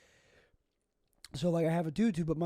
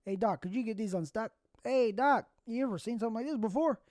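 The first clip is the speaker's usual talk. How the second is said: imagined plea to doctor; 5 semitones higher than usual. Pretend. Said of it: "go to the doctor and say".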